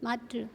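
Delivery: मातृ said softly as maatru; teacher showing how to read मातृ; pronunciation demo. Shown as a demonstration. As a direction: model मातृ as maatru for the class. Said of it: "हम इसको मातृ पढ़ेंगे".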